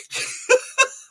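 very high laughing burst; high giggle. Real, not acted. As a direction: crack up at your own mistake. Failing to pronounce name.

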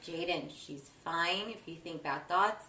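put-on slow, gentle reassurance to a child; calm her daughter down, slowly; a slow, soothing mother telling her child not to worry.

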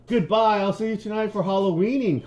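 high-pitched friendly call. A narrator's reading. Frank Junior to departing Wilson, called out high. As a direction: call a goodbye across the yard, voice lifted. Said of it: "called Frank Junior".

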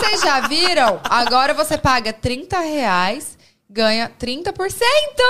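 mock influencer ad read, slow and stretched; imitação de blogueira. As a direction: drag out each phrase and soar on the final number. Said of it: "Mano, ela fica assim, ó". (blogueira lendo publi, arrastado e exagerado)

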